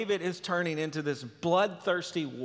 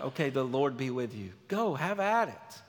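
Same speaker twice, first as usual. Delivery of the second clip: low, offhand mock blessing; imitating a doubtful, resigned go-ahead; dismissive consent; 5 semitones lower, 4 dB quieter than usual. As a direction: toss the blessing off as grudging permission. Saul's grudging paraphrase of the blessing.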